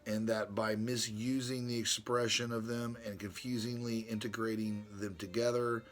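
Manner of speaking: reading his letter to Brother Ron aloud, formally. Acted. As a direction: read it like a solemn treatise.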